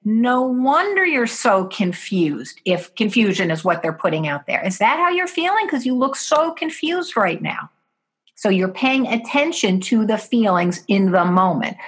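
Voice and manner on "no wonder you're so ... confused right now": compassionate. Shown as a demonstration. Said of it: "So you would say".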